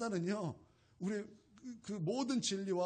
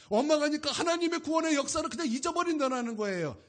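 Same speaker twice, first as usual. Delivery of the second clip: rising, louder preaching build; preaching at full force; 5 semitones higher, 4 dB louder than usual. Real, not acted. Pastor warning the church against grumbling, loud preaching. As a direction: push the sermon higher and louder.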